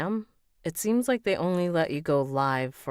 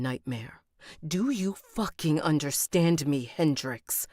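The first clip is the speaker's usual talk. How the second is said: furious; 2 semitones higher, 4 dB louder than usual. Acted. Heroine threatens Hendrix at dinner.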